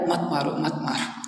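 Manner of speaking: hushed, begging stop it stop it; soft pleading. Retold or imitated. Jagai begging Madai to stop hitting, softly pleading. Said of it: "जगाई बोल रहा है".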